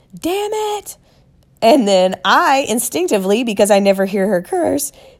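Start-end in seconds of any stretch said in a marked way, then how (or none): 0.1-0.9 put-on very high, screamed-out outburst. Retelling a car crash, imitating mother screaming. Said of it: "My mother screams out".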